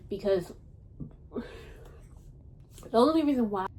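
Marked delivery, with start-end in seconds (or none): 1.3-3.7 breathy, held-in burp; holding back a burp. Real, not acted. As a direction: whisper through a rising burp. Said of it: "excuse me for burping".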